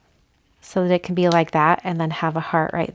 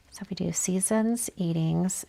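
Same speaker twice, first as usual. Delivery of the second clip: whispering; 5 dB quieter than usual. Real, not acted. Quiet planning to herself.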